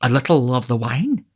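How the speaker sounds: soothing offer. A narrator's reading. Beadle offers the matron wine, soothing. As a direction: gently coax with a rising offer. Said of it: "said Mister Bumble soothingly".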